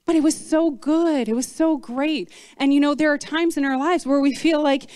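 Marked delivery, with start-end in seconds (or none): 0.0-2.3 drawn-out, sighing fond remembrance; nostalgic. Retold or imitated. Israelites miss the old days, acted nostalgic longing. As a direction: lift the "oh" and linger on it, mock-nostalgic. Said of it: "like, nostalgic feel of".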